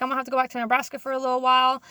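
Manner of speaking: rattled off fast; fast casual retelling to the boss; quick quote. Retold or imitated. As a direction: rush through the line. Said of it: "I was like".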